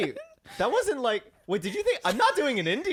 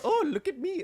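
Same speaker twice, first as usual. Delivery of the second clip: higher, laughing mock show-off; 8 semitones higher than usual. Shown as a demonstration. Host defending his impression to the others, mock show-off voice. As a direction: re-enact a silly look-at-me brag, amused. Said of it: "Do you never now just go".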